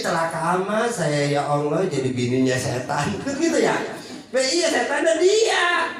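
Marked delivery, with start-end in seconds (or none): 0.0-3.1 wry lament. Retold or imitated.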